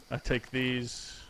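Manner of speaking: gloating mad scientist; slow evil villain. Acted. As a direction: draw it out slowly like a villain. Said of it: "There's your evil laugh".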